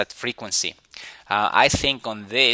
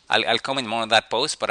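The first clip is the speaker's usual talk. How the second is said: ordinary delivery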